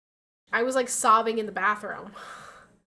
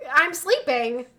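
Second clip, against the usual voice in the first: groggy grump; 3 semitones higher, 8 dB louder, slower than usual. Retold or imitated. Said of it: "And I'm like".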